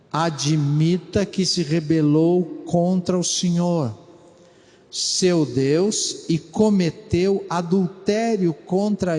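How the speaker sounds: slow solemn reading of the verse; scripture reading. Shown as a demonstration. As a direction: read it out gravely, word by word. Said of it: "então leiamos".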